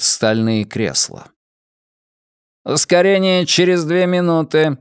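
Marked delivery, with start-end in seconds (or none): 2.6-4.8 high, even ship-computer announcement; metallic robot voice. Acted. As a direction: speak like a cold onboard computer. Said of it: "произнёс металлический голос". (металлический голос бортового компьютера)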